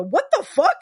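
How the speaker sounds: loud, high "what the fuck"; shocked. Retold or imitated. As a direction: blurt it out in disbelief. Mimicking Russo's shocked face.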